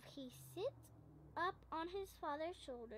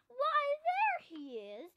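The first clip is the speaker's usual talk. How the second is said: louder, much higher, slow and breathy cry of discovery; triumphant roar; 10 semitones higher, 9 dB louder, slower than usual. A narrator's reading. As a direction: shout it out like finally catching the hider. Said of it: "roars the big bear".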